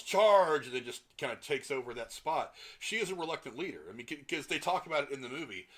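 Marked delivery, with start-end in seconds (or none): 0.0-0.7 loud mock battle cry; yelled charge. A leader pointing at the enemy yells loudly. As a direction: shout it like a commander leading troops. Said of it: "points towards the enemy and yells".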